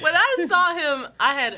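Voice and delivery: laughing. Real, not acted. Laughing as she starts story.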